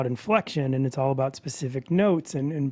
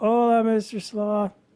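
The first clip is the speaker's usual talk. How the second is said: slightly raised, higher pitch; 7 semitones higher, 3 dB louder than usual. Recalling a past sloth voiceover role: slightly higher voice. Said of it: "I made it a little higher".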